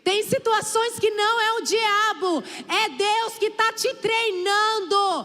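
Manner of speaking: pregação inflamada. Acted. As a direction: raise it to a full preaching cry. Preaching climax at full force. (pregando com força para a igreja)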